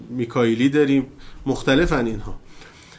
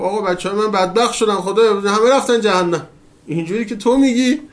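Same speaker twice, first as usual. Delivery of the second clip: mild retold cry; 6 semitones higher, 5 dB louder than usual. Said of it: "حضرت آدم داد زد".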